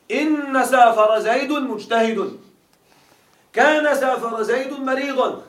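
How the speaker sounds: سافر زيد spelled out slowly in example sentences; slow teaching emphasis. Shown as a demonstration. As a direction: lay out each example slowly for students. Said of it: "أقول: جاء سافر زيد،".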